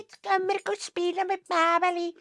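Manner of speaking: high giggly mock announcement; laughing mock voice. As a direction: laugh through it like a kid.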